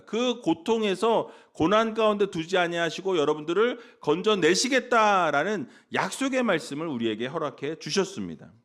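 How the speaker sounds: ordinary talk, nothing marked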